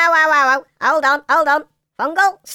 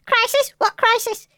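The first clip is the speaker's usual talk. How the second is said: fussy indignant questions; 6 semitones higher than usual. Acted. Mushroom fussing over procedure.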